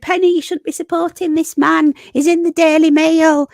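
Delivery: mock-outraged critic, pitched high and loud; indignant critic. Streamer quoting people who told her off, mock-indignant. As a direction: raise pitch and volume to mimic scolding. Voicing critics' objection to Curtis.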